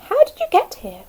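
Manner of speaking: high amazed question. Acted. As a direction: ask it in wonder. Caterpillar amazed by bee.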